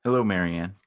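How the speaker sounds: over-bright small talk to hide nerves; awkward brightness. Acted. Two exes meeting by chance, nervously bright.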